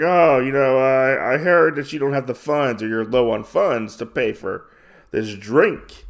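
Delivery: a touch of a smarmy creep offering to pay; sleazeball. Retold or imitated. Sleazy bar patron offers to cover her drink, lightly voiced sleaze. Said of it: "a real sleazeball".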